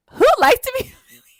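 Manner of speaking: high whispered laugh of disbelief; can't believe anyone likes this, laughing; incredulous laughing whisper. Real, not acted. Incredulous aside about humiliation.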